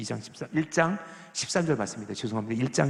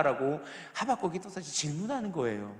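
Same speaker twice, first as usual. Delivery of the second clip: ordinary delivery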